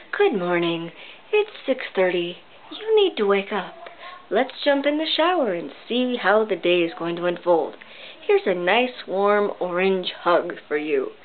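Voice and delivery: soft, gentle yoga teacher tone; lightly voiced gentle morning wake-up; calming yoga voice. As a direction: coax them awake softly like a yoga instructor. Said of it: "she speaks in a very calming voice, just like this".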